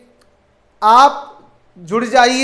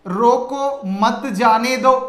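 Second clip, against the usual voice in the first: slow, with a break between रोको and मत जाने दो; pause after रोको; slower than usual. Shown as a demonstration. Teacher showing students how punctuation changes meaning, pause after रोको. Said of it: "विराम चिन्ह से भाषा का अर्थ कैसे बदल".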